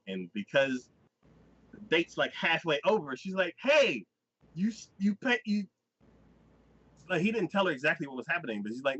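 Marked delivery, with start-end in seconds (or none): 3.6-5.7 mock protest. Retold protest at his leaving.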